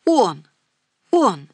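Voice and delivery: a loud, defiant yell. A narrator's reading. Daughter yelling back at her mother, loud and defiant. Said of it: "заорала Ирка".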